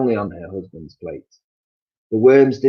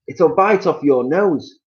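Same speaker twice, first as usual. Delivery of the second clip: slow, high, louder warning; spooky Mister Twit; 8 semitones higher, 6 dB louder, slower than usual. Acted. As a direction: drag it out to scare her. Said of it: "said Mister Twit".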